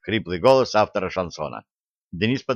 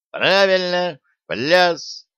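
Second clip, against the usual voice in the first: excited shout; 8 semitones higher, 3 dB louder, much slower than usual. A narrator's reading.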